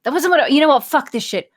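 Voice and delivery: hammed-up fed-up shout; mock God outburst. God losing it over the election, yelling in mock rage. God's frustrated outburst in story.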